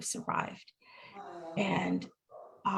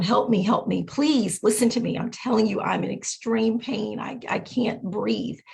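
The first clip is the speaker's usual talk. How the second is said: mildly raised, urgent mock cry for help; retold screaming plea; 2 semitones higher, 3 dB louder than usual. Patient retells begging staff for help, mock screamed plea. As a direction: plead insistently, imitating a scream without full volume. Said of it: "scream and tell everyone".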